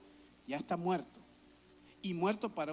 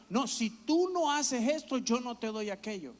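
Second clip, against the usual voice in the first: bargaining parent; 4 semitones higher, 4 dB louder than usual. Retold or imitated. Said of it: "Cuando empezamos a decirle a nuestros hijos".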